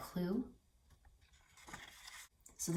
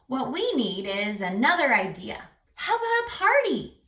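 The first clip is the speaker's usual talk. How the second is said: eager animal voice; 3 semitones higher, 4 dB louder than usual. Acted. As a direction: pitch the idea like an excited little critter. Animal proposes new idea.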